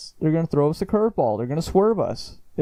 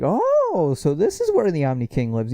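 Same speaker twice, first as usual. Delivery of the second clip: airy "Oh" swooping way up, then offhand; breezy, careless Goku voice; casual idiot; 3 semitones higher than usual. Retold or imitated. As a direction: play it like a clueless tourist. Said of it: "just being a complete casual idiot".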